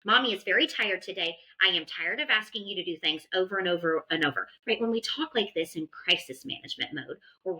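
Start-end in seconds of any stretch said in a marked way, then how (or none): 0.0-4.5 mock scolding, tired and fed up; frustrated parent scolding a child; exasperated parent. Shown as a demonstration. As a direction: nag like a worn-out mom. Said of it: "Versus when I say things like".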